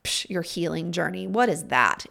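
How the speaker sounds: a dismissive scoff, then a sneering question; mild mock sneer, lightly voiced. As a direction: belittle the idea of healing. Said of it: "Like, very mocking".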